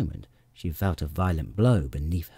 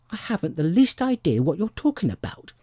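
put-on high-pitched, bewildered child; lightly voiced baffled girl; puzzled little girl; 10 semitones higher than usual. A narrator's reading. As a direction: protest confusion in a lifted voice. Puzzled Alice answers the pigeon.

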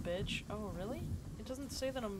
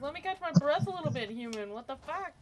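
high, louder winded pet voice; high out-of-breath voice; 7 semitones higher, 6 dB louder than usual. Retold or imitated. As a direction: gasp it like a tired little pet. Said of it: "It's like".

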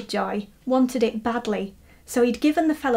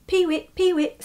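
high bird call "peewit", lightly voiced; a hint of a lapwing calling; lapwing cry; 7 semitones higher than usual. A narrator's reading. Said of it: "said the bird".

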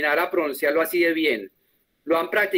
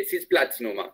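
slow, lower model of the word; 8 semitones lower, 4 dB quieter than usual. Shown as a demonstration. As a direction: say Sitzplatznummer slowly as one word. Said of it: "bien despacito".

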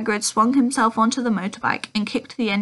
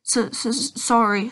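sobbing; slower than usual. Acted. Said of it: "sobbed Hagrid".

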